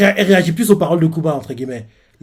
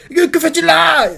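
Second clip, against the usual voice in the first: alarmed surprise; 13 semitones higher, 5 dB louder than usual. Retold or imitated. A sailor reacts to Rox.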